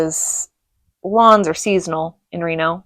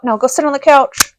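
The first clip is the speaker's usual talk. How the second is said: higher, louder command from a strict father; stern dad order; 8 semitones higher, 6 dB louder than usual. Retold or imitated. Dad ordering the spanked kid to the couch, stern. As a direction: send the kid off firmly.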